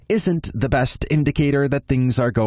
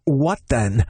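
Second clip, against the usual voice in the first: demanding; 5 semitones higher than usual. Acted. Ben demanding Noel explain himself, firm demand. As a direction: push him for an answer. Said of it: "I demand".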